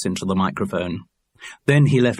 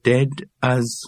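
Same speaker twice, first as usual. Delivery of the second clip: slow, rhythmic list entry; measured headword in a recited list; catalogue rhythm; 4 semitones higher than usual. A narrator's reading. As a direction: read it off like a catalogue. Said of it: "You're getting a rhythm to the words".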